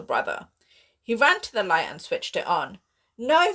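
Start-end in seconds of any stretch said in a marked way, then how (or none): 3.2-3.5 loud, high alarmed no; crying out. Acted. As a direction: cry out to stop him. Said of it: "Vasek cried".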